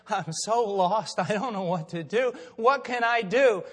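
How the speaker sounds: slow, drawn-out plea, building; retold despair. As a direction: imitate a woman pleading for help. Voices woman in despair.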